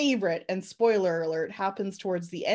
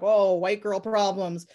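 sarcastic. Retold or imitated. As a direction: sneer at the rich girl. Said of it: "And I'm like".

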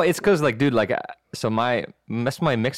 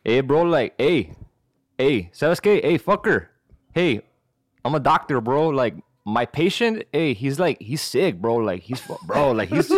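Mexican-American cholo doctor; casual cholo lilt, punctuated like street talk; cholo accent. Acted. Cholo doctor phoning school about a patient, Mexican-American accent. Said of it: "do that call in a cholo".

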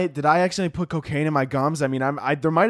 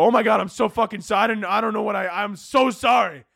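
panicked apology; 5 semitones higher than usual. Retold or imitated. Apologizing to TSA agent.

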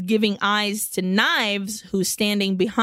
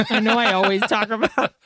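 laughing; faster than usual. Real, not acted. Laughing at own habit.

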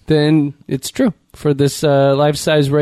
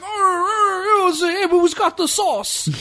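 much higher mocking New Jersey accent; hammed-up New Jersey accent; Chris Christie; slower than usual. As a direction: ask for sauce like a Jersey politician. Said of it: "Chris Christie opens his mouth".

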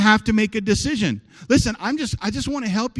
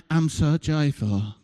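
fake joyful Christian; 4 semitones lower, slower than usual. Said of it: "like some Christians and like".

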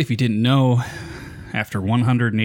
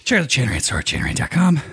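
quick promo read; fast ad read; 3 semitones higher, faster than usual. Acted. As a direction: rattle off the plug quickly. Rushed ad read.

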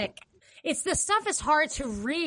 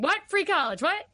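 confused Bernie; 5 semitones higher than usual. Retold or imitated. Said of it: "anything you ask him".

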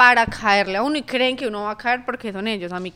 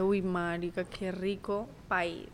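swooning reaction; 4 semitones lower, 9 dB quieter, slower than usual. Retold or imitated. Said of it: "un acento que así me, como que".

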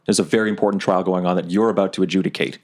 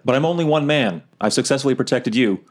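calling out; 5 semitones higher than usual. Acted. Player calling after the judge as she leaves, mild shout out. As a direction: call after the departing judge, lightly. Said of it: "can I shout out".

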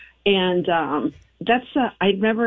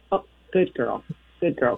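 praising dog; 6 semitones lower than usual. Retold or imitated. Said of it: "if I praise her".

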